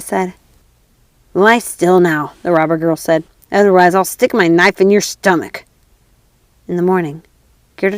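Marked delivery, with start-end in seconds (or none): 1.3-5.6 threat. Acted. Robber girl threatens.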